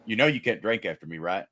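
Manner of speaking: dead serious, quick and level; deadpan. Retold or imitated. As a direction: deliver it totally straight-faced. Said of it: "looked at me just deadpan, just flat serious".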